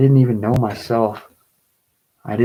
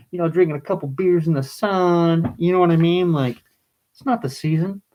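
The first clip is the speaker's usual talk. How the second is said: close to tears; 5 semitones higher than usual. Real, not acted. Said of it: "Why am I crying about this shit?".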